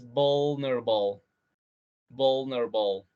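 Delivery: vulnerable clipped to vul-ner-ble; three-syllable vulnerable. Shown as a demonstration. Teacher giving the preferred three-syllable vulnerable. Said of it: "queda en tres sílabas".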